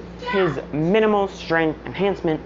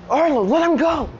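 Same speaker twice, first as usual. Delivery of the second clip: put-on higher, louder girl's plea; Seraphina pleading; 10 semitones higher, 3 dB louder than usual. Retelling his story, he voices Seraphina shouting at Arlo to let Izuku go, higher and louder. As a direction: voice the girl crying out to stop him. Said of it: "Seraphina's like".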